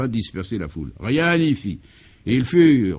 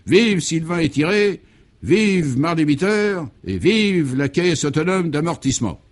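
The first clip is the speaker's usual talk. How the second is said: loud, higher, slow cheering cries; crowd cheering; 6 semitones higher, 5 dB louder, slower than usual. Acted. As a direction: chant it like a delirious crowd in triumph. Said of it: "aux cris mille fois répétés".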